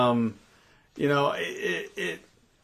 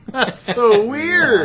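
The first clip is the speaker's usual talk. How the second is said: laughing; 10 semitones higher, 8 dB louder, much slower than usual. Real, not acted. Laughing at the coincidence.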